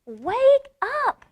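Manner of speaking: high loud yell; principal's yell. Acted. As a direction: bellow it right at her. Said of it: "yelled at Amy as loud as she could".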